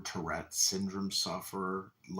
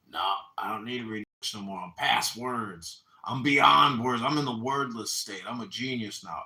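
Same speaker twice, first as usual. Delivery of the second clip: mocking Ray Yabia; 6 dB louder than usual. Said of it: "Oh, Ray Yabia".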